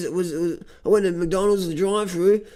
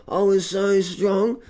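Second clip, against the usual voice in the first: slow boast; much slower than usual. Acted. Boasting after eating meat.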